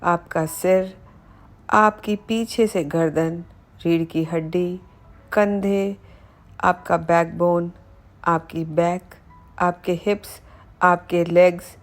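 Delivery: measured meditation voice with pauses between phrases; unhurried body-scan narration, phrase by phrase; guided meditation. Acted. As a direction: guide the listener calmly through relaxing each body part. Leads guided body relaxation meditation.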